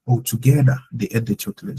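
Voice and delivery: "together" first and stressed. Shown as a demonstration. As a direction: put the weight on "together" at the front. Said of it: "emphasize on the together".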